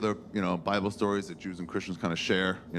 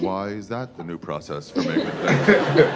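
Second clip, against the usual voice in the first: louder, slow indignant complaint; a fed-up guy questioning his boss; indignant Adam; 4 semitones lower, 7 dB louder, slower than usual. Acted.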